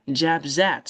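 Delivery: "Jabs at" joined as jab-zat; z liaison. Shown as a demonstration. Teacher explaining when to link, z liaison. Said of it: "C'est quand on fait liaison".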